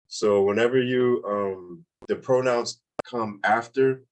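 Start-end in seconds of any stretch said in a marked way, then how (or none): none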